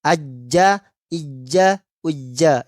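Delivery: ajja with a j sound instead of a buzzing z; wrong jim sound. Shown as a demonstration. Teacher showing the mistake of reading zai as jim.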